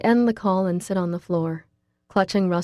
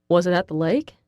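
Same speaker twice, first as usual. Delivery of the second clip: puzzled. Acted. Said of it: "Russell sounds puzzled as he asks".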